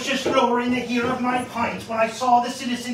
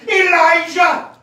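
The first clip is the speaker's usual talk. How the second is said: slow, louder booming call from above; heavenly call; 8 semitones higher, 7 dB louder, slower than usual. Acted. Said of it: "a voice out of heaven, calling".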